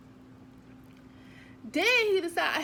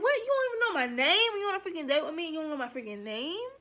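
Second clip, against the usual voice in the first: pissed; faster than usual. Retold or imitated. She's pissed at date.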